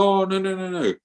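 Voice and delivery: high, hammed-up no, no, no; protesting disciple. Disciple refusing his guru's call, high mock protest.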